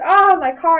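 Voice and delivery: mock wail. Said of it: "and my dad was like".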